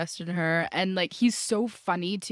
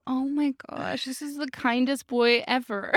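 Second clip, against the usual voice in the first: higher, laugh-tinged mock swoon; gushing listener reaction; 3 semitones higher than usual. Listener melting over the actor's sweetness, gushing with a laugh. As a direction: gush it as if melting over him. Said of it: "you're listening and you're like".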